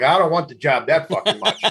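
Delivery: laughing. Retold or imitated. Retold fear, laughing through it.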